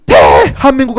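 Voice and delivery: drawn-out supporter chant; mock football cheer. Teacher imitating fans after a goal, mock cheering shout. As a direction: chant like a fan after a World Cup goal. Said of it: "소리를 지르기도 해요".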